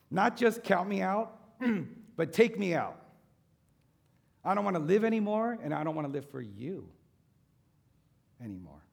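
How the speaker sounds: preacher voicing Elijah's outcry, building loud and high; anguished outcry. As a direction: cry out that he wants to quit.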